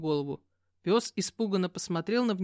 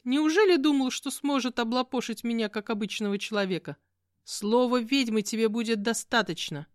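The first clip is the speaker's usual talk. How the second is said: indignant; 5 semitones higher, 3 dB louder than usual. Acted. Witch stays indignant.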